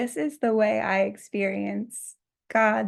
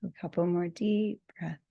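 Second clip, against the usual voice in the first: guided meditation. Acted. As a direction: lead them gently through the massage. Guides a scalp massage.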